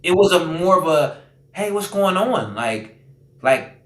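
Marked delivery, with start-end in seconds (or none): 1.5-2.5 slow, gentle, concerned question; caring calm. Retold or imitated. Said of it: "they cared".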